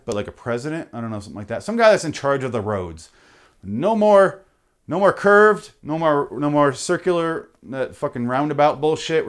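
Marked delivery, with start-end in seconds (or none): 3.6-9.3 mock decree. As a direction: proclaim it like a road tyrant. Decreeing as road god.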